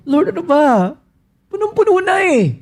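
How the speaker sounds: high, overwhelmed plea to the Lord; desperate cry. Acted. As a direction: cry out that it's too much. Voicing a desperate believer.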